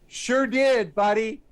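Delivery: high, loud, over-eager yes; placating agreement. Retold or imitated. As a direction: agree fast to dodge a punch, played for laughs. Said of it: "I don't want him to punch me".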